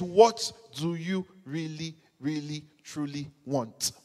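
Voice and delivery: slow, hushed voice of God; slow soft question from God; soft divine question. Acted. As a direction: ask it gently and slowly. God asks softly.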